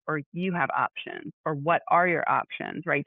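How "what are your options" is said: slow, gentle question. Shown as a demonstration. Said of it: "Delivery is everything".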